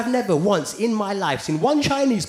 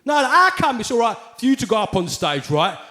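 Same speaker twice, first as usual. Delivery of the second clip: lightly mocked indignant insistence; aggrieved white complainer. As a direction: press the grievance as a put-out white man. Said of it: "White people would give me shit".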